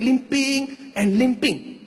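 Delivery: very slow, dragged-out words; limping, dragging delivery. Shown as a demonstration. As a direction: drag it like a limp. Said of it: "this was how the uncle was limping".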